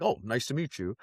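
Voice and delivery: lightly imitated white American English; a hint of mock white American voice; white person impersonation. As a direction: do a mild white American impression. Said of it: "like, white person impersonation".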